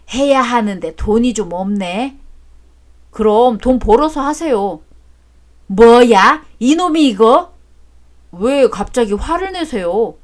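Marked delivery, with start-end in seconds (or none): 5.7-7.5 angry outburst. Acted. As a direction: explode at the son's cheek. Father snaps at stingy son.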